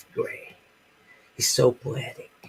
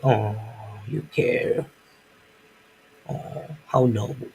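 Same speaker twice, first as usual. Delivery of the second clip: mock sarcastic.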